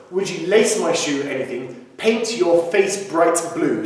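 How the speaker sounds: every word of "Paint your face bright blue" crisply articulated; clear enunciation. Shown as a demonstration. Teacher modelling funny lyrics for singers, super clear enunciation. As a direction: sound the T's in "Paint" and "bright" distinctly. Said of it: "enunciation's got to be super clear".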